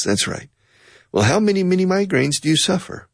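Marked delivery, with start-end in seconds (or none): 1.1-3.1 questioner voice. Acted. Voicing a questioner.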